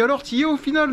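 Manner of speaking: question imitée. Retold or imitated. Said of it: "quand je leur dis".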